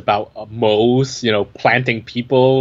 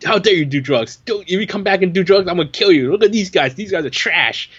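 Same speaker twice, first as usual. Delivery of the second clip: put-on higher-pitched, preachy scolding of a kid; mock moral outrage; 5 semitones higher than usual. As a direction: parody a self-righteous hero telling off a young buyer. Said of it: "had this moral outrage".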